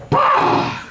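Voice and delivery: very high burst of a yell; sudden shrieked "bah"; high triumphant "bah" shout. Retold or imitated. Drawn-out high triumphant cry. Buddy jumps out of the trash.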